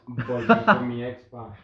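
slow, dragged out through laughter; laughing. Real, not acted. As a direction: repeat it while cracking up. Repite la pregunta riéndose. (repitiendo la pregunta entre risas, lento)

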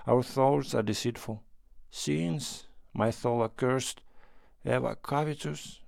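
a mock-pious stranger, brooding; sinister pilgrim voice. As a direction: lament your sins with sly gloom. Pilgrim's dark confession.

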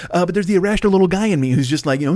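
usual speaking voice

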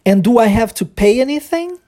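rising tune that ends high on "anything"; question intonation. Shown as a demonstration. Teacher drills the question for students, rising question intonation. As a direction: climb through "pay anything" and stay up. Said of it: "existe uma entonação aqui".

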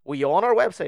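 retelling the interviewer talking down to him; mock condescending question. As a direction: sneer it up like you can't believe them.

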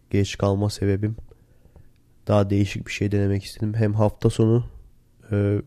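ordinary delivery

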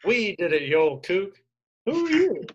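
cheer, then jump high in bafflement; acted-out celebration tipping into high confusion; Mermaid Man. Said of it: "Mermaid Man celebrates".

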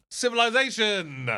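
high, loud proclamation; big, high announcer shout; winner announcement. Pretend. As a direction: proclaim the winner like a show host. Announces winner after long pause.

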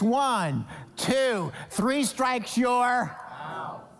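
slow, building umpire count; preacher mimicking an umpire's call.

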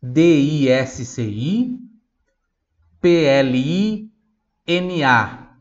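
slow spelling. Shown as a demonstration. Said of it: "Então, disciplina".

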